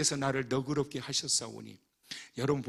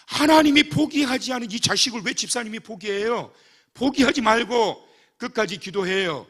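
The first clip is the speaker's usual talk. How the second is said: louder, higher, insistent scolding; firm rebuke; 7 semitones higher, 7 dB louder than usual. Retold or imitated. Pastor scolding the deaconess, loud and pressing. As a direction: press her not to give up.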